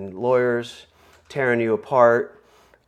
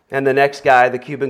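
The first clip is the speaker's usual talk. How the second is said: ordinary delivery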